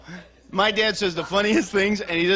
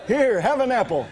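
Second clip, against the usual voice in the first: squeaky high helium voice coaxing a park animal; 5 semitones higher than usual. Pretend. Comedian feeding park animals in a high helium voice. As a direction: pitch it way up like you sucked a balloon. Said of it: "That's a great helium voice".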